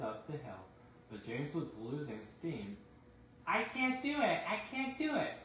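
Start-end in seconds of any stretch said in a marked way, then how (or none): 3.5-5.4 high, straining despair; crying out at the limit; desperate. Acted. James losing steam on hill.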